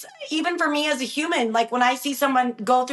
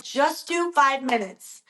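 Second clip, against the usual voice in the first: slow, calm coaching; steady encouragement; slower than usual. Retold or imitated. Husband on the phone coaching her through, calm and slow. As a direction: talk her through it gently.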